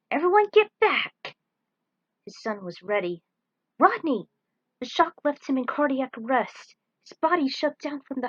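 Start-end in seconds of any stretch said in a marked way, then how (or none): 0.1-1.4 high, loud warning shout; urgent command. Acted. Father warning the crew before the shock, loud command. 3.8-4.3 high, loud call of a name; urgent call. Acted. Father calling his son to help, urgent.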